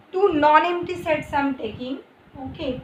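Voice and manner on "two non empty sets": "non-empty" said a little louder than the words after it; stress on NON-EMPTY. Real, not acted. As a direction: put weight on "non-empty". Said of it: "put emphasis on the word non-empty".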